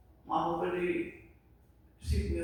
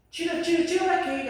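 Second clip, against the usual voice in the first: high, disgusted shooing away; mock shooing; 9 semitones higher, 4 dB louder than usual. Mocking a passerby driving the beggar away, high and disdainful. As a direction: shoo him off in a higher, louder voice.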